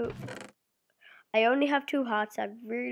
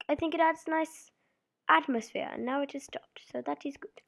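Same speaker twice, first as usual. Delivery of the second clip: posh voice; 4 semitones higher than usual. Pretend. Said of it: "putting on posh voice".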